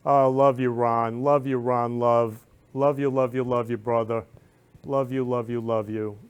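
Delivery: loud, effusive repeated love yous; shower him with affection; gushing love you. Retold or imitated. Sister about to tell brother news, gushing loudly. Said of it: "to tell him".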